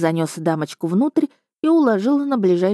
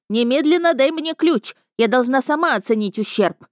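hysterical lady; 7 semitones higher than usual. A narrator's reading. Hysterical lady demands key.

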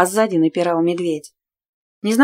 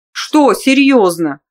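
slow mock surprise; 3 semitones higher, 6 dB louder, much slower than usual. Mocking stranger asks.

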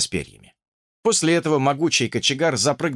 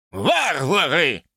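slow, high grumbling scorn; grumbled insult; 3 semitones higher, much slower than usual. Acted. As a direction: mutter it slowly in disgust. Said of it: "пробурчал бродяга".

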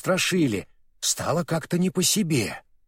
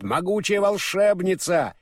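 mild mock yell, higher pitch; retold shout; 5 semitones higher than usual. Урфин mimics the witch boasting, mock shouting. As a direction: proclaim it as an imitated boast. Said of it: "кричит".

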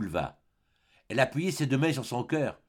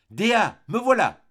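slow, high, loud call; exalted last cry; 10 semitones higher, 8 dB louder, slower than usual. A narrator's reading. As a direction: cry out to the beloved, drawing it out. Last cry to beloved before falling. (cri exalté, lent, fort et aigu)

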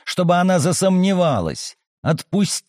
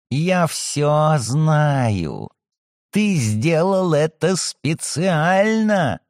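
eerie slow menace; much slower than usual. Acted. Possessed girl, slow menace.

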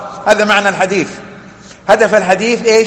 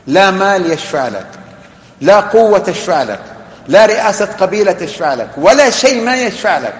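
repeated refrain building in pitch and force; emphatic listing. Real, not acted. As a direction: hammer out each item, rising to a peak. Emphatic rhetorical list of worthless intercessors.

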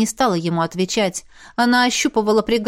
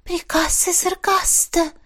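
rustling whisper; 8 semitones higher, slower than usual. A narrator's reading. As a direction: breathe it out like a rustling ghost. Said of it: "прошелестела Мисси". (шелестящий призрачный голосок)

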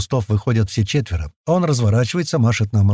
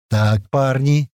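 slow, calm; much slower than usual. A narrator's reading. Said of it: "медленно разведя руки".

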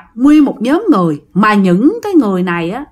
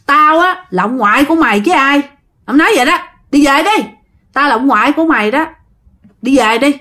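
affectionate scolding; 3 semitones higher than usual. Retold or imitated. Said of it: "dạng mắng yêu".

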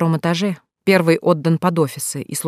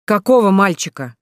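loud, higher startled shout; shouted together; 4 semitones higher, 4 dB louder than usual. Acted. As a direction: blurt it out in alarm. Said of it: "в один голос прокричали". (громкий изумлённый выкрик)

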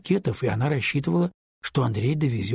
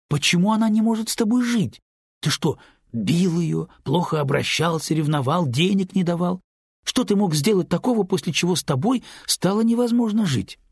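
incredulous questioning; 6 semitones higher than usual. A narrator's reading. Lyuba interrogates her friend about the divorce, higher and insistent. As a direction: fire the questions at him in disbelief. Lyuba presses Andrey for reasons.

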